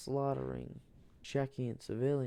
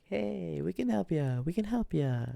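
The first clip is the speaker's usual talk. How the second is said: Morocco voice; 6 semitones higher than usual. Acted. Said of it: "And Morocco's like".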